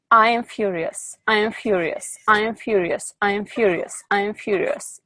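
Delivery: steady repeated mantra, demonstrated; repeated affirmation. Shown as a demonstration. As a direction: model the chant for the group, each line falling. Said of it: "I want to say out loud over and over".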